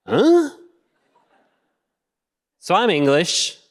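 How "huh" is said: confused huh. Acted. Confused listener's reaction.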